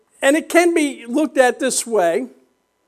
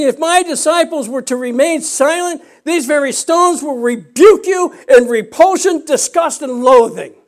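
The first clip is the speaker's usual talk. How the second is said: forceful preaching quote; 4 semitones higher, 5 dB louder than usual. Retold or imitated. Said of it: "So what Jesus was saying".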